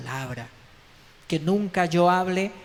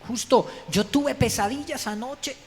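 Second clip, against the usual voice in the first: higher, urgent pleading rising to a high cry on justo; Pilate's wife begging him to stay away from Jesus, pleading high; 3 semitones higher than usual. Retold or imitated. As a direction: beg him not to get involved. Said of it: "La misma esposa le dijo".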